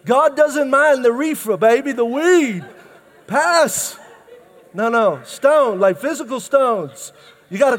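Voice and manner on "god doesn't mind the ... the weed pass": high, laughing stoner drawl; mock stoned churchgoer. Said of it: "Someone's like".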